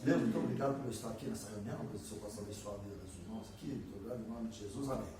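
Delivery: fast, low, mumbled routine prayer; a typical rote prayer of creation, hurried and low; rote quick prayer. Retold or imitated. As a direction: rattle off a prayer you know by heart. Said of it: "Essa é uma oração típica da criação".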